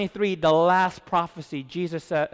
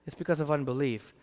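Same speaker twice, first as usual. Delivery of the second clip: ordinary talk, nothing marked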